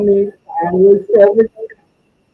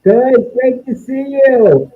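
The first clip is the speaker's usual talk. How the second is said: underwater; 3 semitones higher, slower than usual. Real, not acted. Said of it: "Why do you sound like you're underwater?".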